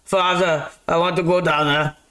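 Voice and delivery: lightly voiced young hero pleading; a hint of a movie-hero voice asking permission; Hercules. Hercules asking his father Zeus to leave, lightly voiced pleading. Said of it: "he goes".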